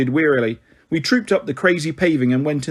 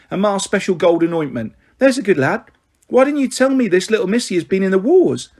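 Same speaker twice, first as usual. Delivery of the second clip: a lightly voiced, fond, gossipy mother rattling on; teasing her son as a warm-hearted mum, quick and bright; chatty cockney mother; 4 semitones higher than usual. Mrs Chubb fussing.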